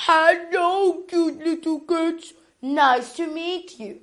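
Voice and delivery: lightly voiced grandma; Grandma's voice. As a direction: greet the cats like a kind old grandma. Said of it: "says Grandma".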